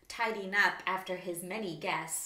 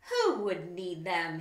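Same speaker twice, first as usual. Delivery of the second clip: a slow, louder harrumph; 6 dB louder than usual. Acted. Grumpy wombat harrumphs at the little wallaby. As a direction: scoff at the very idea. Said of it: "he harumphed with a snort".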